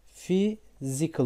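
Physical, slow, with f at the start; slow demo. Shown as a demonstration. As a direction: draw out Physical. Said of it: "F'ye dönüşüyor". (Physical, yavaşça fizikıl)

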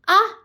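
short startled "ah" of a cry; trembling cry. A narrator's reading. Malu cries out as he bites her neck, trembling cry. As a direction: let out a brief involuntary gasp-like "ah". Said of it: "അവൾ വിറയലോടെ ശബ്ദമുണ്ടാക്കിപ്പോയി".

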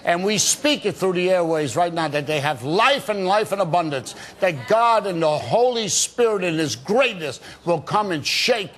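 a fervent prayer, rolling through the list of curses; breaking curses over the viewers in a preacher's prayer; deliverance prayer. Real, not acted. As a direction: pray it over the viewers with conviction. Leads a prayer on air.

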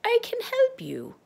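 very high, airy witch whisper. Acted. Witch speaks secretly.

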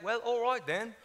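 lightly put-on British reply; mimicked British accent. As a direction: accept it in mock British. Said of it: "with British people, you wanna talk like them".

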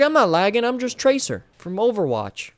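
mock lagger voice. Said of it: "He's like".

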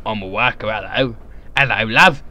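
leering caricature of a Cockney; Cockney impression. Mocking all Cockneys with a worker's chat-up, in a Cockney accent. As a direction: put on a chummy Cockney chat-up voice. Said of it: "all Cockneys right there".

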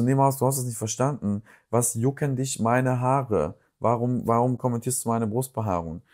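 retold indignant comeback; mildly exasperated, re-enacting the argument; empörte Widerrede. Retells own indignant comeback in quarrel. (leicht empört nachgespielte Widerrede)

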